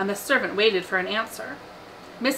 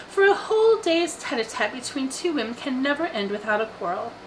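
lightly performed letter, pitched higher; reading aloud; 6 semitones higher than usual. A narrator's reading. Daughter reading an invitation to her family, reading aloud. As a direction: read a friend's note out in a raised voice. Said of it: "and then read it aloud".

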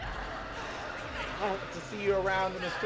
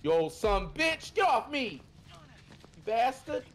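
panicking gamer; 6 semitones higher, much slower than usual. Real, not acted. Killer grabs him in game.

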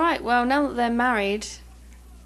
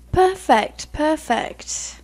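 delighted; 5 semitones higher, 5 dB louder, much slower than usual. Real, not acted. Pleased with wedding outfits.

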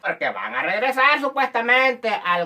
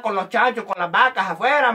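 ordinary delivery

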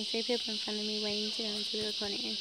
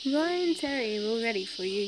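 calling out; 5 dB louder than usual. Acted. Man calls the next person.

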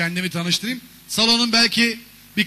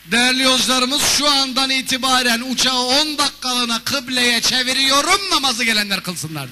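raised, louder captain's intercom voice; pilot announcement; 4 semitones higher, 4 dB louder than usual. Pretend. Comic pilot telling passengers about prayer, loud announcement. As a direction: announce the prayer break grandly.

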